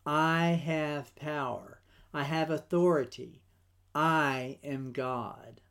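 slow, measured words of command, lightly voiced; Jesus declaring his authority, deliberate and unhurried; a hint of a solemn divine voice, drawn out; voicing Jesus. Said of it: "Jesus was making a statement".

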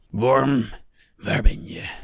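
loud, high bellow down the tunnel; furious bellowing call. A narrator's reading. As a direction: roar it from afar. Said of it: "bulderde een stem".

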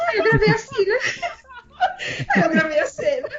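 high-pitched, laughing through the words. Real, not acted. Telling friends how the shoot ended, laughing. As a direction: crack up while telling it. Cracking up at her own story.

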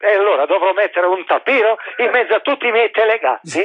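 hammed-up anger at the nepotism; mock indignant cry; mock outrage. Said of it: "Si è arrabbiato".

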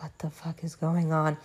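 breathy panicked whisper under her breath. Retold or imitated. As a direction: whisper it in alarm, as if trapped. Stuck clamped in the x-ray machine.

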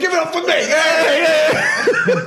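high, loud mock of a cocky young comic; obnoxious kid comic. Mocking the obnoxious kid who did open mic. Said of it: "the most obnoxious fucking kid".

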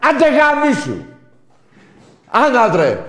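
very high, very loud angry outburst; real furious yell. Real, not acted. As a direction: scream a dismissal at the rival fan. Furious dismissal in football quarrel.

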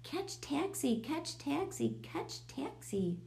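high, repeated cry, last one drawn out; screamed. A narrator's reading. Brian spots the cat running into bushes, high scream. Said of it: "Brian screamed".

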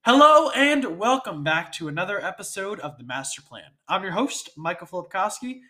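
congested, blocked-nose voice; stuffy nose. Real, not acted. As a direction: talk through a stuffy nose. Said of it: "my nose is stuffy".

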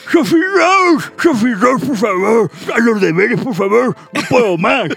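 high, drawn-out mock call to a child; exasperated pleading. Father begs daughter Sophie to do homework, exasperated. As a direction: plead like a parent at the end of their tether.

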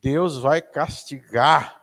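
very slow, drawn-out threat; stern warning. Retold or imitated. Preacher repeating the threat parents use, very slowly. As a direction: stretch out the threat over a child. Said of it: "se alguém já ouviu isso".

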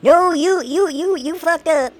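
mock rebuke from the moderation bot; mock bot verdict. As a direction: scold like a smug bot judge. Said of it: "it's like".

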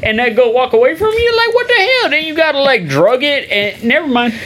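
hammed-up Southern accent. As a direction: ramble like a hammed-up Southern yokel. Host keeps the Southern voice.

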